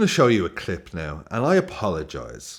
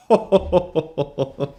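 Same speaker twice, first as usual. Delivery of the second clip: high cackling laugh; real burst of laughter; 7 semitones higher, 3 dB louder than usual. Real, not acted. Host cracking up at the poem's punchline, real laughter. Cracks up after last line.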